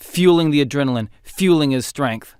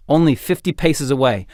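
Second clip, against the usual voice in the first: usual speaking voice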